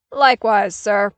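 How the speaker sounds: loud clipped answer; curt soldier reply. A narrator's reading. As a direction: answer crisply.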